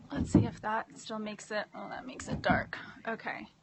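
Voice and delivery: unvoiced muttered aside; whispering to herself while fixing the light; whispered aside. Real, not acted. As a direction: drop to a whisper to yourself. Aside while adjusting camera.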